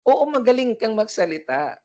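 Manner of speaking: high, loud mock emcee voice; shrill emcee. Teacher mocks emcees who hurt the ears, shrill. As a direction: imitate an ear-splitting high-pitched host. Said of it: "may naririnig tayong nag-e-M C na yung parang matutinan".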